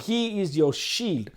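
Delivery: slow, deliberate stress on "shield"; emphatic. Real, not acted. Preacher stressing one particular word to his listeners, emphatic. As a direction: draw out "he is your shield", landing firmly on "shield". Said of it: "I want to emphasize on this word".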